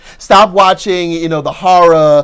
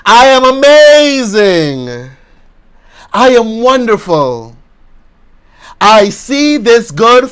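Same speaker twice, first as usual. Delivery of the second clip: slow, loud, higher declarations with long pauses; loud group affirmation; 4 semitones higher, 3 dB louder, slower than usual. Shown as a demonstration. Preacher leading the congregation in slow, loud affirmations. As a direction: chant it like a vow. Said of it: "Say with me".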